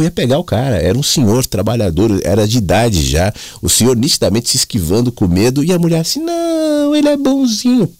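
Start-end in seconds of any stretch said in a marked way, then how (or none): 6.2-7.9 high, breezy woman's voice; dismissive dog owner. Retold or imitated. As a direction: brush off the worry, pitched way up. Retold dog owner brushing off fear.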